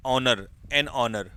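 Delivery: Honour, an honour said slowly and evenly; slow dictation. Shown as a demonstration. Teacher dictating the answer to students, slowly. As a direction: space out honour and an honour for writing. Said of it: "मैं बोलता चलूंगा".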